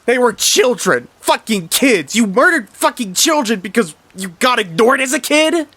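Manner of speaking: screamed way up high and very loud; grieving brother screaming at his murderous brother; furious screaming. Acted. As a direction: scream it at the brother who killed them, voice cracking high. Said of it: "Mister Grouper yells".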